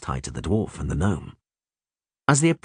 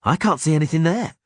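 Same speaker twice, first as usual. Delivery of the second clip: tense archer whisper; 8 semitones higher, 3 dB louder than usual. A narrator's reading. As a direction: keep it tight, arrow drawn. Milva voiced in audiobook.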